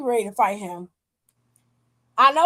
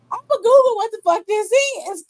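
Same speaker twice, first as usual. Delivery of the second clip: incredulous; 9 semitones higher, 4 dB louder than usual. Retold or imitated. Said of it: "And I would have been like".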